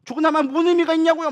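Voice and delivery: high-pitched imitation of arguing with God; resentful complaint. Believer demanding answers from God, resentful protest. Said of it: "따지면서 원망하고 그러잖아요".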